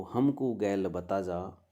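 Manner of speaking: "हमको गैल बता जा" chanted slowly as part of the verse; verse recitation. Acted. Line within the recited verse. ("हमको गैल बता जा" धीमे पाठ के स्वर में)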